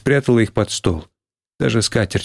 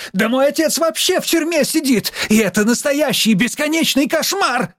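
wanting to scream. A narrator's reading. Schoolgirl's outburst about her jailed father, high-pitched cry. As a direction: cry out at a high pitch, holding back volume. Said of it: "хотелось сплюнуть и заорать".

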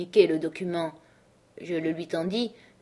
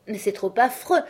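crying out; 3 semitones higher than usual. Acted. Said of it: "s'écria Missis Groves".

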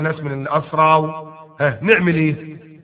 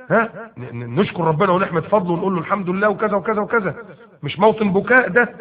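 earnest plea; 6 semitones higher than usual. Acted. Abdul Rahman pleads with weeping Umar.

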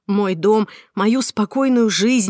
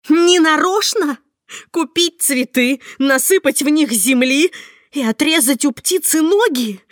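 furious shout; 6 semitones higher, 5 dB louder than usual. Acted. Heroine mocks Marta's excuse, furious shout. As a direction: fling her words back at her with disgust.

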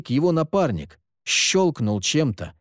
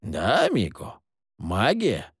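a touch quieter, fully serious; dead serious; 2 semitones lower, 3 dB quieter, slower than usual. A narrator's reading. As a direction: say it plainly, no joke in it. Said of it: "совершенно серьёзно сказал Сид". (совершенно серьёзно)

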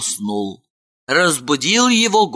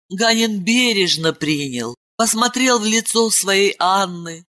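usual speaking voice

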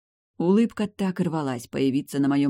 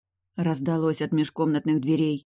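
ordinary delivery

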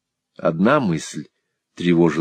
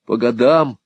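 higher, louder bitter cry; outcry; 5 semitones higher, 5 dB louder than usual. A narrator's reading. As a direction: Smike cries out at the word years. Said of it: "вскричал Смайк". (Смайк вскрикивает: высоко, громко)

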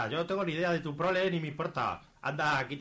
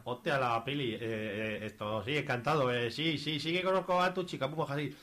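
flustered stammer; 4 semitones lower than usual. Acted. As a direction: stammer it, caught out. Caught out, stammering.

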